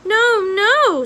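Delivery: high, loud, alarmed protest. A narrator's reading. Rat begging the screaming princess, alarmed and high. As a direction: rush to stop her, alarmed.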